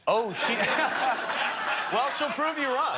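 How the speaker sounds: laughing. Real, not acted. Laughing retort to host.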